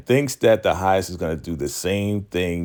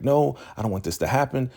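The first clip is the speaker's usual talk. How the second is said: higher, quick mock protest; retold freak-out; 7 semitones higher, faster than usual. Zane refuses to accept it, mildly frantic. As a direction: play someone going crazy, pitched up and hurried. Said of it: "Zane is going crazy".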